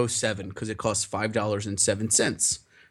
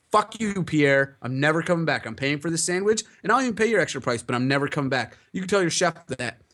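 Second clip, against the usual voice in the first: mildly heated retold telling-off; mock-defiant parting speech; retold angry walkout; 4 semitones higher than usual. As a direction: act out an indignant customer, pitch jumping.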